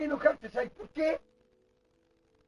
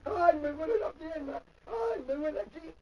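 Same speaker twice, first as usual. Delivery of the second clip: mildly mimicked complaint of pain; mock whining; 3 semitones higher than usual.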